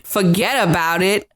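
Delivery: mock New York mobster accent. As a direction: drop into punchy New Yorkese. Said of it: "your New York accent".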